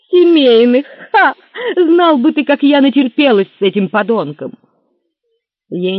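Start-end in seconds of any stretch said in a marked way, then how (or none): 0.1-4.5 scornful outburst. Acted.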